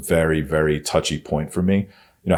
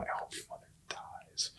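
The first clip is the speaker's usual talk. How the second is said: whispered with venomous cruelty, evil tone. Retelling what a woman kept saying over and over, imitating a cruel, evil tone. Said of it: "fucking evil tone".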